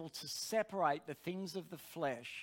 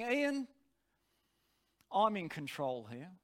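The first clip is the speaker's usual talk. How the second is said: calm quiet authority. Retold or imitated. Preacher's spirit takes charge of his flesh, calm and authoritative. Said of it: "the voice of my spirit was calm".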